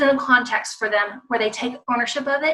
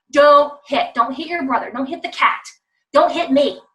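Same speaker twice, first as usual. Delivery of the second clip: exasperated parent; 3 semitones higher, 5 dB louder than usual. Acted. Acts exasperated parent repeating command.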